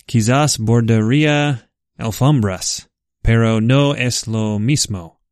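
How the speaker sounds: Spanish read with an American accent; English speaker reading Spanish aloud. Real, not acted. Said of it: "My apologies for my Spanish pronunciation".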